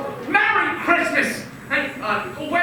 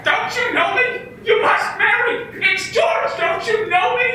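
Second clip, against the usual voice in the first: desperate pleading; 6 semitones higher than usual. Acted. Husband begs wife to recognize him.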